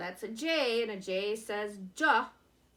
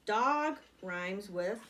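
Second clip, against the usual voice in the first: 1 slow prompt; much slower than usual. Shown as a demonstration. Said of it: "rhyming family".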